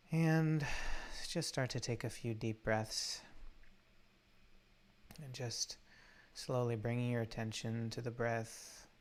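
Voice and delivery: calm meditation guide, long unhurried pauses; guided meditation. Real, not acted. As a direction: gently guide listeners into the breath, leaving space between phrases.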